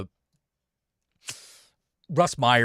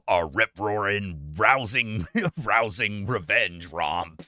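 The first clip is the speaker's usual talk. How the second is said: movie trailer voiceover; 5 semitones lower, slower than usual. Retold or imitated. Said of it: "movie trailer voiceover".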